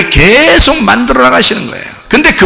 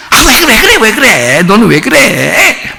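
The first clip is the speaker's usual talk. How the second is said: coaxing dad; 2 semitones higher than usual. Acted. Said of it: "뽀뽀하려고 막 그런단 말이에요".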